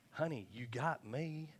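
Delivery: mock plea, slow and drawn out, climbing high and loud; hammed-up husband begging for notice; pleading husband. Husband offers himself to his crying wife, pleading.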